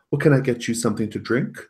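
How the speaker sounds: high, rising motherly offer; artificial hostess sweetness. Acted. Serena offers Ellen a drink, artificially sweet. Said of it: "and says".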